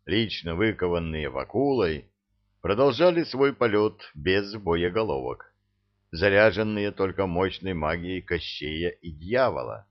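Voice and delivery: ordinary delivery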